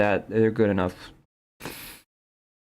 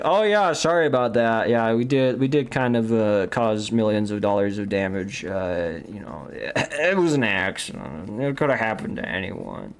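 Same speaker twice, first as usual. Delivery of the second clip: mock apology. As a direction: toss off a fake apology, laughing it away. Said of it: "How many apologies be like".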